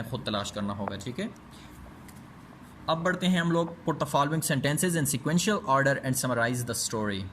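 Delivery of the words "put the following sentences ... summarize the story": very slow, word-by-word reading for students; slow textbook reading. Shown as a demonstration. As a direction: read it out slowly like dictation. Reads exercise instruction. (धीमी आवाज़ में पाठ पढ़ना, शब्द-दर-शब्द)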